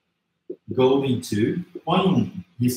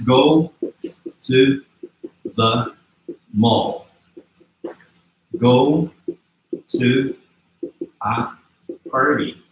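slow dictation; much slower than usual. Shown as a demonstration. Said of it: "você vai colocar aqui".

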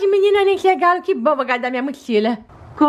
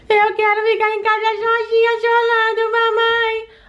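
put-on sulky little girl; 6 semitones higher than usual. Doll child sulking.

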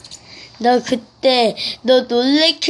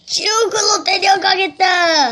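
higher, hammed-up threat; mock ghost shout; 5 semitones higher than usual. Ghost threatening to take the child to hell, hammed-up shout.

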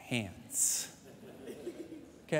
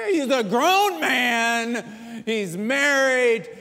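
mother pleading; 5 semitones higher, 5 dB louder, much slower than usual. Retold or imitated. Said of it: "the mom's like".

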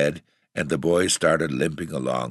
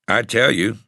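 hoarse; 8 semitones higher, 6 dB louder than usual. A narrator's reading. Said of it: "the boy said hoarsely".

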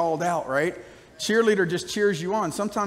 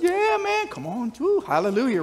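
excited cheer; 5 semitones higher than usual. Retold or imitated. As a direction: burst out high with a cheering woo. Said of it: "And like".

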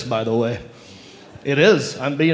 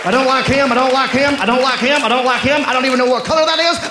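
higher voiced bigot repeating himself; mock racist grumble; 5 semitones higher, faster than usual. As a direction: act a lightly voiced grumpy racist.

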